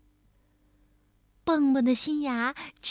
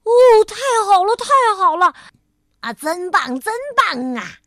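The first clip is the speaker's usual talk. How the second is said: high, loud, delighted applause voice; thrilled spectators whooping praise; excited cheering; 7 semitones higher, 11 dB louder than usual. A narrator's reading. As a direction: cheer them on wildly. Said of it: "他们兴奋地为跳跳鼓掌加油".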